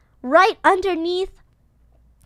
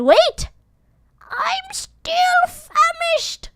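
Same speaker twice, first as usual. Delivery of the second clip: breathy hungry whisper; whispered complaint; 13 semitones higher, much slower than usual. Retold or imitated. The speaker whispering she's still hungry. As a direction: whisper it like a starving kid. The speaker voicing her younger self.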